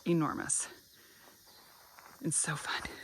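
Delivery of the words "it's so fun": breathless from crouching down; out of breath. Real, not acted. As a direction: puff the words out breathlessly. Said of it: "I'm getting out of breath".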